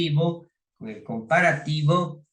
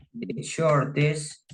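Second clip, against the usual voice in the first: slow dictation; 3 semitones higher, much slower than usual. Shown as a demonstration. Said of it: "Puedo decir que Peter".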